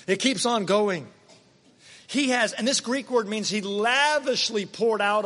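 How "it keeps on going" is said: laughs, then says "keeps on going" properly; laughing correction. Shown as a demonstration. Preacher correcting his own folksy phrase, laughing. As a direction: fixes "on a going" with a chuckle. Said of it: "On a going?".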